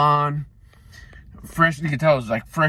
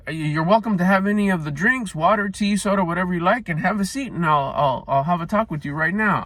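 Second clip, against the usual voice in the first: lightly higher welcoming manager; a hint of an obliging boss; mildly higher, easygoing host voice; friendly manager; 5 semitones higher than usual. Manager voice continues.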